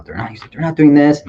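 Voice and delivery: put-on thick Québécois accent, worked up; French accent. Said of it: "Big, thick French accent".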